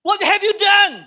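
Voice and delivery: high, loud scolding shout; angry yell. Acted. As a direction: blast the child for ruining it. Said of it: "Dan kita teriak".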